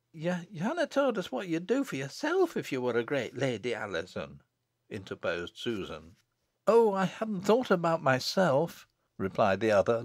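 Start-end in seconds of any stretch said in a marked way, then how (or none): 0.1-4.4 high-pitched country questioner, falling at the name; Susan, village girl. Acted. Susan questioning Alizon's daydream, high country voice. 6.7-8.9 high, lightly amused reply. Acted. Daughter brushing off the question, high and lightly amused.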